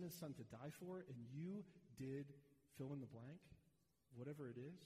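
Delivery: lightly voiced sneering accuser; a hint of scornful reproach; accuser's voice. Preacher voicing the accuser who shames the sinner, mild scorn. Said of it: "the voice shifts to something like this".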